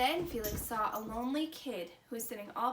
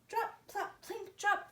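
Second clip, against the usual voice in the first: playful sound words; 7 semitones higher than usual. A narrator's reading. Drops falling, sound words.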